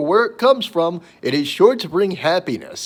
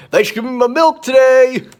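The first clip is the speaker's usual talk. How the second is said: sweet thank-you voice; 8 semitones higher, 7 dB louder than usual. Retold or imitated. Mock message to produce manager.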